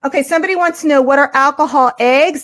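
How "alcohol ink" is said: "alcohol eggs" in a New York accent, ink coming out like "eggs"; a New Yorker's "alcohol ink" that sounds like "alcohol eggs". Real, not acted. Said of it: "That's my New York accent".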